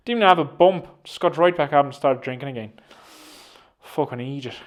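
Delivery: lightly put-on Irish storyteller; Irish accent. Podcaster spinning a yarn about an invented drinker, mock Irish accent. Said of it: "an Irish accent as well".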